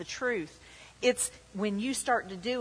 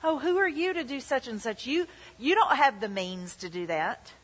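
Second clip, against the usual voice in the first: deceitful voice; 4 semitones higher than usual. Retold or imitated. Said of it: "that's a deceitfulness of riches".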